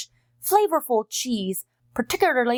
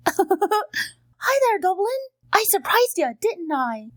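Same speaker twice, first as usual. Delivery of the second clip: a lightly higher playful dog character voice; lightly voiced Irish setter greeting a friend; Fallon the dog; 5 semitones higher, slower than usual. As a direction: tease your friend with a cheeky surprise. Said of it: "my good friend and fellow Irish dog, Fallon".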